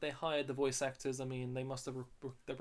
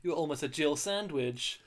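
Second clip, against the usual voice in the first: Jill sandwich line delivered louder, with inflection; inflected line reading; 2 semitones higher, 8 dB louder than usual. Shown as a demonstration. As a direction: put some inflection on it, louder. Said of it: "you were putting inflection on that".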